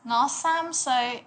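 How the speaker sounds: a hint of a child's voice; little kid. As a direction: lightly voice a toddler stating their age. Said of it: "Some kid might come up to tell you".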